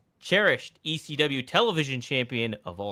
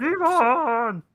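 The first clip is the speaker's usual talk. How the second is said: calling out; 13 semitones higher, 7 dB louder than usual. Acted. Calling out for Devon.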